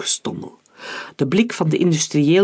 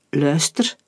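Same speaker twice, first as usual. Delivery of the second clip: mildly angry, held-back hiss; a touch of angry sibilance. A narrator's reading. Hector warns the man at the bar, mildly hissing. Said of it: "siste Hector kwaad".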